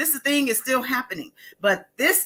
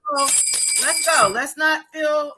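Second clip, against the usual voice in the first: higher, punchy rally cry; higher, excited call to celebrate; 6 semitones higher than usual. Real, not acted. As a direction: rouse the listeners.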